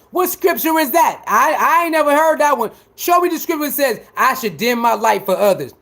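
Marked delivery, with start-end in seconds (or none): 0.1-2.7 raised, challenging outburst; indignant shout. Real, not acted. Streamer challenging haters to name the scripture, shouting.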